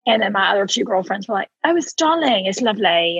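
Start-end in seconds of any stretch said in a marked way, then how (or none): 1.6-3.2 a hint of British gush over dinner; imitated British accent. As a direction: mimic a British friend's accent. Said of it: "one is British and one is Australian".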